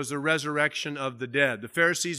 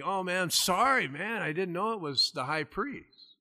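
higher-pitched, casual apology; mock-innocent apology; 4 semitones higher, 3 dB quieter than usual. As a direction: lightly act out an honest mistake. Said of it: "he's kinda squinting, you know, and think".

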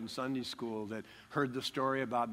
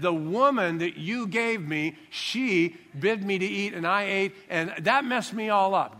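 whiny Adam excuse; 5 semitones higher, 6 dB louder than usual. Retold or imitated. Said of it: "He said".

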